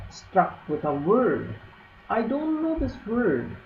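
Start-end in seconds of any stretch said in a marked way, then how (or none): 2.1-3.6 high, thin squeak like a rat; squeaky little elf voice. Acted. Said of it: "the elf squeaked".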